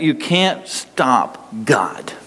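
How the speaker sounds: slow, breathy-free whisper of conviction; whispered slowly for weight. Real, not acted. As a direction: drop to a slow intense whisper. Sermon emphasis.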